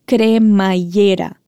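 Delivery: Cremallera stretched slowly; slow syllable-by-syllable. Shown as a demonstration. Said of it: "Repete ela pra mim".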